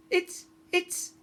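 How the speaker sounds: stammering shock. Acted. Narrator boy stammers in shock.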